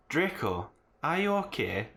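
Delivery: mock gloomy goth deadpan; lightly put-on goth voice; gothic voice. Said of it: "I asked in a gothic voice".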